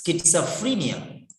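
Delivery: schizophrenia joined up as skit-suh-FREE-nia; correct pronunciation. Shown as a demonstration. Teacher joins the drilled syllables, whole word skit-suh-free-nia. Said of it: "See the pronunciation".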